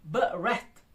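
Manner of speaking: ब्रेथ broken as "buh-reth"; teacher splitting ब्रेथ into two syllables; split into syllables. Shown as a demonstration. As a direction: say ब्रेथ in two distinct beats. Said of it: "इस तरह के दो दो syllables बन रहे हैं".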